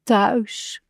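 lingering, lightly wistful word; dreamy. A narrator's reading. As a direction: let the word drift out dreamily. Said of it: "zei Kikker dromerig".

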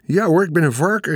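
put-on high, cheeky boyish call. A narrator's reading. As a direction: call back like a defiant kid. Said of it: "riep Michiel". (brutaal roepend jongetje)

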